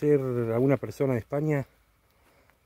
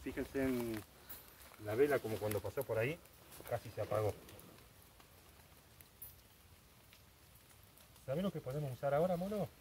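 nervous night vlog whisper; 14 dB quieter than usual. Real, not acted. Hushed talk during night séance.

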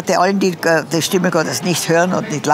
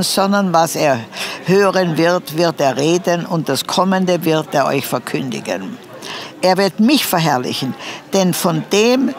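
solemn scripture reading. Acted. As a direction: read the verse like a pulpit lesson. Reads John 16 aloud.

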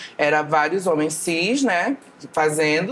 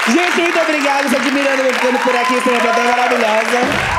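despedida animada; 6 semitones higher, 4 dB louder than usual. Real, not acted. Despedida da plateia.

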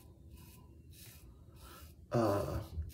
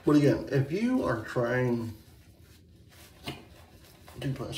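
talking through hiccups; interrupted by hiccups. Real, not acted. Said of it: "I don't know why I'm getting the hiccups".

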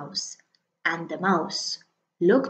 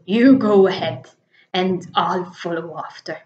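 louder, lightly voiced monster; a big beast agreeing; Gruffalo's voice; 2 semitones lower, 4 dB louder than usual. Gruffalo agreeing with the mouse, a louder monster voice.

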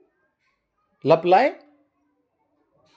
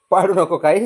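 पाडू said louder, a sharper don't-knock-it-over; firmer warning; 5 dB louder than usual. Real, not acted. Warning the pet louder not to knock things down. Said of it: "पाडू नको काय तिथं".

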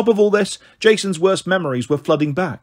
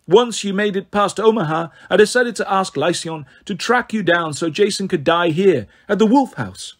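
lightly voiced villainess, falsely affectionate; a hint of icy mock affection; mocking snow goddess; 3 semitones higher than usual. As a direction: tease them as a cool goddess.

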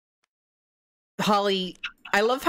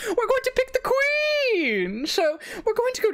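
proclaiming. Acted. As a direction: announce it to the hall. Host proclaims.

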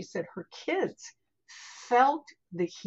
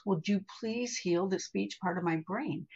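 even, unfussy retold request; matter-of-fact; 3 dB quieter than usual. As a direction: ask it simply, as a practical matter. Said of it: "matter of factly".

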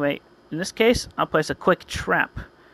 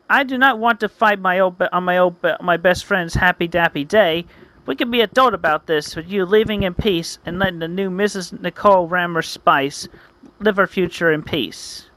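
raised-pitch dramatic appeal; lightly hammed-up heroic reasoning; earnest hero; 2 semitones higher than usual. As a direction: plead firmly for peace like a hero. Hero makes appeal to rival.

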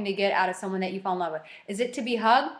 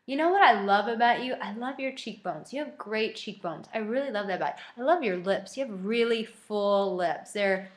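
mirror affirmation. Retold or imitated. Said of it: "look in the mirror and be like".

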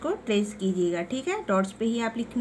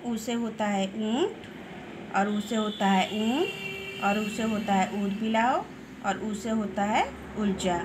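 teacher's word list. Shown as a demonstration. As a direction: read each word out for young pupils. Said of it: "लंबा खींच के".

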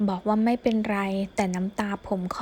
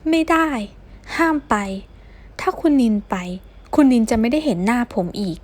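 urgent threat; 2 semitones higher, 5 dB louder than usual. Acted. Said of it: "ผมนึกคำขู่ไม่ออกแล้วจริงๆ". (ขู่ห้ามเสียงดังอย่างร้อนรน)

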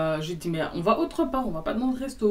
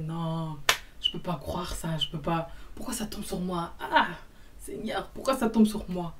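understated imitated lament, breaking into an outcry; mock despair; 3 dB quieter than usual. Storyteller imitates man head in hands, mock despair. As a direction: lament as if something grave happened. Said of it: "il y avait eu un truc grave".

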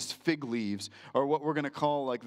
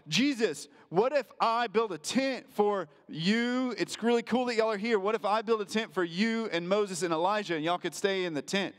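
eager Peter; 5 semitones higher than usual. Retold or imitated. Peter eagerly offers to build tents.

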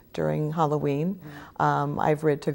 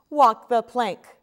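slow, louder playful pirate order; commanding; 6 semitones higher, 6 dB louder, much slower than usual. Acted. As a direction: bark it like a captain giving an order. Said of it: "commands the pirate mommy".

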